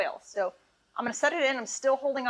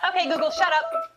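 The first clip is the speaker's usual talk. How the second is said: loud command; 6 semitones higher, 4 dB louder than usual. Real, not acted. Snapping at a voice assistant.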